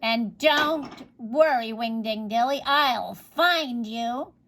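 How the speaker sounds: slow, drawn-out menacing promise; sly witch threat. Acted. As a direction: savour each word like a curse.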